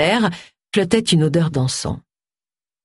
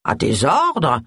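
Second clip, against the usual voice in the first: half-hearted compliance; obey without conviction; limp, reluctant agreement; unconvinced; 2 semitones lower, much slower than usual. Acted. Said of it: "dit Charles sans conviction".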